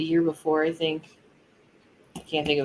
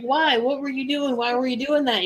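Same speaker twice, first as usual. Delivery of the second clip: mock teacher; 8 semitones higher than usual. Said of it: "the teacher's like".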